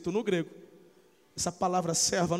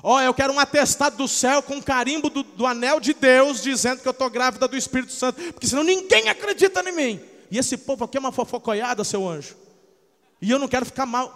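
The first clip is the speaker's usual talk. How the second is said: demanding Maria; 4 semitones higher, 5 dB louder than usual. Retold or imitated. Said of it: "fala assim".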